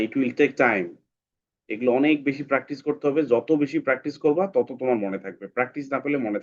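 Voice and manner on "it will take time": slow emphatic advice. Real, not acted. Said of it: "teacher stresses practice".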